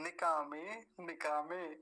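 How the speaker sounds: निकामे with short नि and long का; model pronunciation. Shown as a demonstration. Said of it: "ऐसा उच्चारण होगा".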